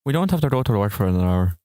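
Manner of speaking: quick amateur Irish imitation; fast, unconvincing Irish accent; Irish accent attempt. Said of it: "I don't think I can do an Irish accent".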